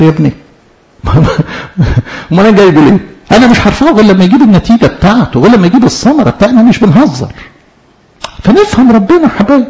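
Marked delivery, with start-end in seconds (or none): 2.3-7.3 higher-pitched, quick insistent retort; quick protest, pitched up; mock-indignant divine reply. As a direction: act out God refusing to budge, lightly exasperated. Voicing God's stern reply on discipline.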